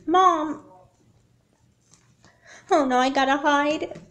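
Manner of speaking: high and loud, frantic; panicked. Acted. Daughter panicking in her dream, frantic. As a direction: scramble to hide in fear.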